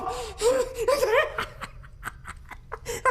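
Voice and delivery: high, bursting laugh after the shout; burst of laughter. Acted. Man cracking up after his fake rage, burst of laughter. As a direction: laugh off his own outburst.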